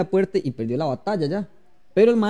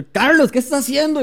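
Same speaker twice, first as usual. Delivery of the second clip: raised-pitch shocked question; mock startled scolding; 9 semitones higher, 3 dB louder than usual. They open the door on Carlos, mock shock. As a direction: imitate someone catching him in the act.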